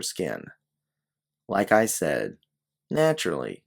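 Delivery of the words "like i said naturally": wry. Acted. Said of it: "you say with a wry smile".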